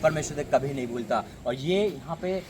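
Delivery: emphatic exhortation with forceful bursts; insistent sermon delivery; fervent preaching. Real, not acted. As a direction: urge the congregation with surging conviction. Exhorts congregation to support.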